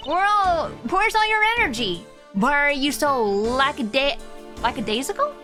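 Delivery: pep him up; bubbly girl voice. Acted. Voicing Kay excitedly.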